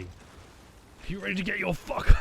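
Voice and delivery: slow, high mock yell; hammed-up yell of Joe. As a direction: bellow it like a hype man, drawn out. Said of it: "Joe would yell that".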